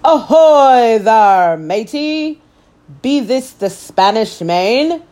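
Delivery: pirate captain yelling a greeting. Acted. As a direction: hail the boy like a bold pirate captain. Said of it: "climbed out of the boat and yelled".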